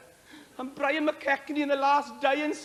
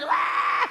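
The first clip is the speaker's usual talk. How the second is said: mock scream; 4 semitones higher than usual. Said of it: "and screaming".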